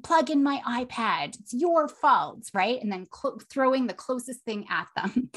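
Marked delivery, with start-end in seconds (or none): 0.0-2.5 put-on accusing kid outburst; mock yell. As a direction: act out a kid yelling at parents. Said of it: "the behavior is to yell at their parents".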